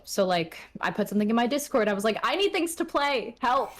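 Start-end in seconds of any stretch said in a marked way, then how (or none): 2.2-3.7 higher-pitched playful begging; mock plea for help. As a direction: plead in a high, hammed-up voice. Acted plea to Discord friends.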